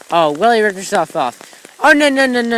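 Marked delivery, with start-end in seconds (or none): 1.8-2.6 dismayed no. Real, not acted. Reacting with dismay.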